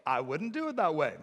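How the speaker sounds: high, loud whiny protest; whining complainers. Retold or imitated. Preacher voicing people complaining about God's plan, whiny. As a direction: whine like they're being treated unfairly. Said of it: "they're like".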